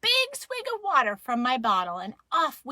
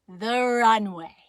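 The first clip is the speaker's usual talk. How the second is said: loud, drawn-out name; grand reveal; 6 dB louder, slower than usual. A narrator's reading. Child reveals favorite part of the trail, grand announcement. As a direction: announce it slowly with weight.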